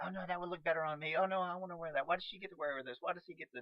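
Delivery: lightly acted bickering over outfits; mock squabbling. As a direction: complain like a jealous castmate, playfully. Acting out costume squabbles between castmates.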